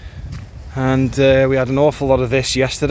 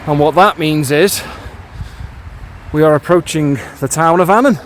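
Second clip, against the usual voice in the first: echoing under a bridge. Real, not acted. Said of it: "Ooh, nice echo under the bridge".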